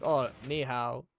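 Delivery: slow, easy ni hao; greeting locals in Chinese; casual ni hao. Retold or imitated. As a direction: offer a simple Chinese hello. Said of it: "I would be like".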